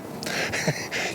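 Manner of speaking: breathy, voiceless chuckle; short laugh. Real, not acted. Husband answers reporter asking if crash was a blessing, chuckling. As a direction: let out a small laugh of agreement. Wry reaction to interview question.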